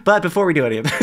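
giggling, rushed fast; can't hold back laughter; laughing through it. Real, not acted. Host breaking up while starting ad segue, fast giggling. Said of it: "Jesus Christ, what's wrong with me".

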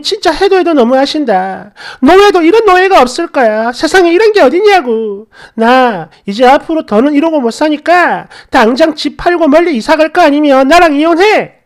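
wife screaming at husband about divorce; retold yelling. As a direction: shout the ultimatum, fed up. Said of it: "고래고래 소리를 질러버렸어요".

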